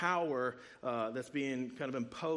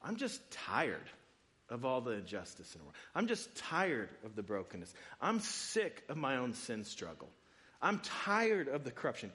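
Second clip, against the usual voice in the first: weary lament; 5 semitones lower than usual. Retold or imitated. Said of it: "maybe it's expressed this way".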